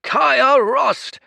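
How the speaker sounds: high, loud desperate call of her name; cried out. Acted. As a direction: yell her name so she turns. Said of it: "he cried".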